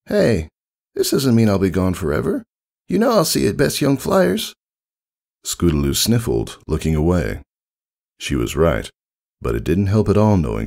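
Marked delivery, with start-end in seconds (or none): 0.1-4.5 high, tomboyish pony voice, gently comforting; a cool older hero reassuring a kid; Rainbow Dash voice. Acted.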